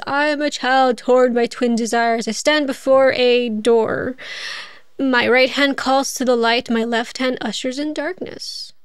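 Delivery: slow, solemn plaque reading; a lightly solemn reading; reading an inscription. Acted. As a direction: read it out like a riddle.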